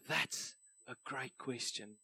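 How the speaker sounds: very slow, hushed British imitation; British accent. Pitcher who kept on saying it, British accent. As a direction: quietly stretch it out in mock-British. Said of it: "my best British accent".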